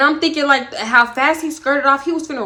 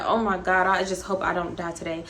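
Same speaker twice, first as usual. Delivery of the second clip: scared mutter; 5 semitones lower, 6 dB quieter than usual. Retold or imitated. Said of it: "I'm like".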